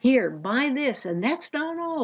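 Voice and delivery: hammed-up TV infomercial hype; infomercial pitchman. A TV infomercial host pushing a product, in a hammed-up pitchman voice. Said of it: "TV infomercials".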